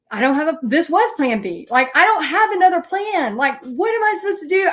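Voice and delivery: freaking out. Retold or imitated. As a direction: spiral into tipsy panic at the bar. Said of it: "full freak out mode".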